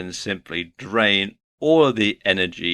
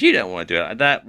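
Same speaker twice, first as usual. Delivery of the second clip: quick, lightly mimicked fault-finder; a hint of the irritating character; negative nitpicker; 3 semitones lower, much faster than usual. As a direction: rattle it off like a meddling know-it-all. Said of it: "when someone says".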